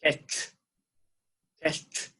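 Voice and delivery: careful model of Catch; teacher pronounces Catch for repetition; model word catch. Shown as a demonstration. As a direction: Catch said clearly, the class repeating. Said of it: "everybody repeat after me".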